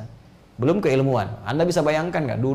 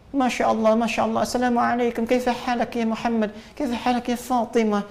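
higher-pitched imitation of an Arab speaker; Arab accent; 10 semitones higher than usual. Shown as a demonstration. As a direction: greet like a native Arabic speaker, pitched up. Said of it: "Bicara Arab kayak orang Arab". (menirukan logat orang Arab)

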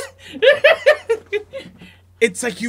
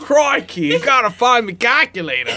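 mock Steve Irwin; 2 semitones higher than usual. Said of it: "sounded like Steve Irwin".

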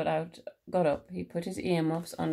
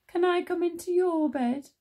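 high little-mouse voice; pleading Little Mouse; 11 semitones higher, 5 dB louder than usual. A narrator's reading. Little Mouse asks to share the bed, high pleading. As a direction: ask in a high, louder childlike plea. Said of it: "asked Little Mouse".

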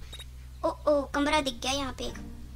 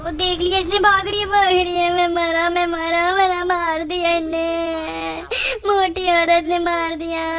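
loud, higher shouts, slowing at the end; panicked yelling; 3 semitones higher, 8 dB louder than usual. Real, not acted. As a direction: yell in dramatic defeat. Spotted and caught in game. (ज़ोर से घबराई चीख़ें, हार पर)

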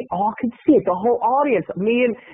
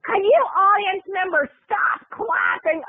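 high, slow, snippy diva demand; mean diva Roseanne; 9 semitones higher than usual. Retold or imitated. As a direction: snap at the crowd like a diva. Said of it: "her tone shifted".

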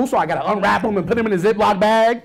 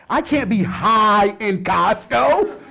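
laughing; 3 semitones higher, much slower than usual. Acted. Stand-up bit about being high.

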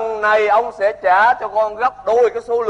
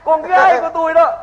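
emphatic, raised-voice claim; insistent; 5 semitones higher than usual. Acted. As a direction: proclaim it to a doubting in-law. Father insists after being echoed.

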